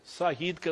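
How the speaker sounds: ساہید with the j sound of Sajid said as h, the way an American nurse says it; ساہید said with h in place of j. Retold or imitated. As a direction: say ساہید, not Sajid, with a soft h. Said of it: "Americans جے کو آئی بولتے ہیں".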